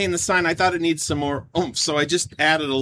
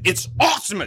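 monster truck announcer; 4 semitones higher, faster than usual. Acted. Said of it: "I can't help it".

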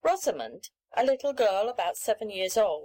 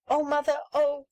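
put-on high, eager child's cry; a little girl calling out in delight; excited cry; 5 semitones higher than usual. A narrator's reading. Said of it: "cried she".

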